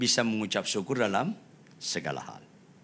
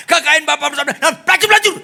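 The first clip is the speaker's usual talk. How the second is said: spat-out, high shouted accusation; even louder outburst; 14 dB louder, faster than usual. Acted. Elder son condemning brother to father, shouting. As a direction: hurl the last words at full volume. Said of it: "Itu lebih keras".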